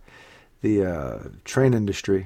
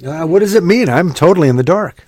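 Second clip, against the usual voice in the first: puzzled; 5 semitones higher, 8 dB louder than usual. Real, not acted. Loud puzzled question.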